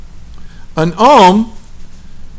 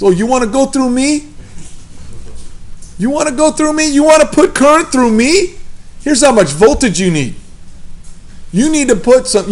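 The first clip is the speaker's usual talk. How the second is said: hammed-up New Jersey tough talk, starting high and easing down; bad New Jersey accent; 5 semitones higher than usual. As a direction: play a confrontational resistor in your worst New Jersey accent. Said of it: "my worst New Jersey accent".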